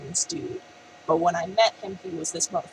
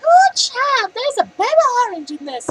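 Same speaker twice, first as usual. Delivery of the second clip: mock sassy black lady; 10 dB louder than usual. Mocking how he imitated her baby orange line. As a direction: ham up a sassy auntie voice. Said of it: "like a sassy black lady".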